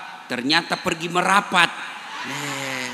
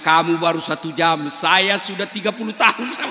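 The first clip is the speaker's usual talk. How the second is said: louder wry punchline; husband's punchline; 4 dB louder than usual. Acted. Husband answering the jinn, loud and wry. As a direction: deliver the husband's retort with a grin.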